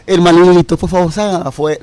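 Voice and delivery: mocking a meek Jesus begging them out; mock polite plea. Preacher mocking a meek Jesus asking traders to leave, mildly. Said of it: "Y no le dijo".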